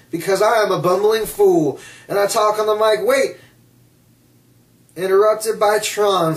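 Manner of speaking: a hint of a hyped-up ring promo, mocking; playful, half-hearted mock of a wrestler cutting a promo; John Cena impression. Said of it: "doing a John Cena impersonation".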